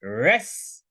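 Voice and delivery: "रेस" as the stressed first part of wrestle; stressed first syllable. Shown as a demonstration. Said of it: "मतलब high pronunciation होगा".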